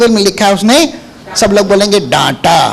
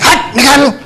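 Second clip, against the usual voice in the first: higher sharp command to leave; stern rebuke; 4 semitones higher than usual. Shown as a demonstration. Preacher rebuking the fever again, sharp and commanding. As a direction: drive it out with authority. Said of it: "बुखार को डांट रहा है ऐसे".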